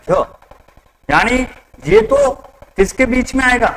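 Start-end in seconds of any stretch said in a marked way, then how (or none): 0.1-0.3 य as a lone "yuh" sound; isolated consonant sound. Shown as a demonstration. Teacher showing students the word's first sound, य sounded alone as "yuh". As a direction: give just the y-glide, य. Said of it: "इसका sound आ रहा है".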